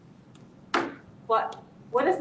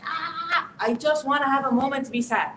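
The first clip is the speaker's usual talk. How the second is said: put-on frustrated teen plea; 3 semitones higher, 3 dB louder than usual. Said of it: "your kid is like".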